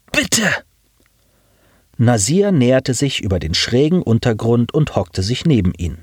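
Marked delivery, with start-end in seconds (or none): 0.1-0.5 high, clipped machine voice pleading; a high, evenly pitched plea; flat robotic plea. A narrator's reading. Injured pilot begs Nasir for help, flat high plea.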